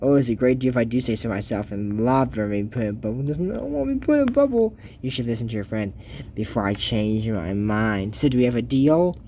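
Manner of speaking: low, sly villain voice, lightly done; a hint of a low villainous witch; scheming villain. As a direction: purr the offer like a scheming sorceress. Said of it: "And she goes".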